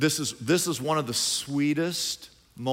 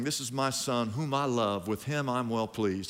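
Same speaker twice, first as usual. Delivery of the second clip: voice of God; 3 semitones lower, 5 dB quieter than usual. Acted. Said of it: "you hear that voice of God saying".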